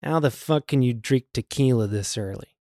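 low, quiet star impression; Jack Nicholson. Boss passing a colleague at work, Nicholson-style impression. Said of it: "it is a Jack Nicholson accent".

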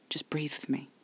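hushed, whispery reassurance; quiet repeat. A narrator's reading. Caspar with a hand on Alfie's neck, hushed and soothing. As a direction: coax very softly, almost whispering. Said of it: "he repeated".

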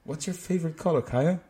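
lively mock American greeting; put-on American English. Imagining chatting to the host in class English, mock American. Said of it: "Can, can you imagine?".

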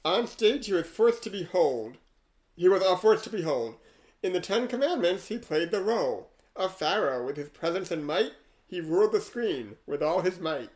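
rhythmic verse reading, lines leaning hard on their openings; poem recitation. Acted. Host reading an AI poem about Yul Brynner, measured recitation. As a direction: recite a rhyming tribute line by line. Reads the rhyming poem aloud.

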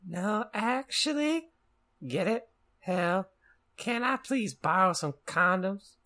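angry growl. Acted. Lupin asking for condoms, mock angry growl. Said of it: "He growled angrily".

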